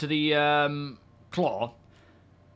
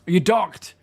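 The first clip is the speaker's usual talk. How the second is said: excited; 6 semitones higher, 8 dB louder than usual. Real, not acted. Praising a successful docking.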